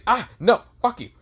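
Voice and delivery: high, loud yelp while fleeing; panicked refusal. Acted. Asta flees from angry Draken.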